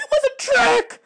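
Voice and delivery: high, outraged cry; furious shout. Acted. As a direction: hurl the accusation out in anger. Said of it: "she shouted".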